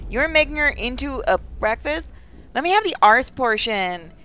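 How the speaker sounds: half-hearted British cannibal voice; badly faked British, rising on the question; attempted British accent. British cannibal begging for a portion, clumsy British accent. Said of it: "I can't do a British voice".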